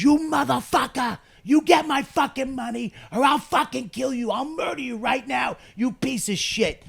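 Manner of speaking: high-pitched, strained furious shout; snapping in rage. Retold or imitated. Steven yelling at the actor in rehearsal, enraged. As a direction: explode into a retold murderous threat. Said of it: "he just fucking snaps".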